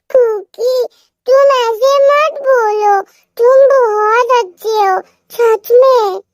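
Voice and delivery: put-on high sweet little-girl voice; childlike reassurance. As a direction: comfort him like a sweet child. Wife comforts husband.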